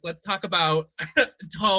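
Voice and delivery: slow, elegant announcer intro. Shown as a demonstration. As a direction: present the title like a show host. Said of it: "make it sound like a real announcer".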